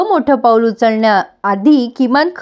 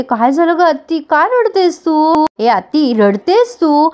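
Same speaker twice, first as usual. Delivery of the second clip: higher-pitched, drawn-out tender questions; lightly acted caring concern, lingering on the words; affectionate concern; 4 semitones higher, slower than usual. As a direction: gently coax an upset aunt, pitch lifted. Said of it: "Appu आपुलकीने आत्याजवळ बसते".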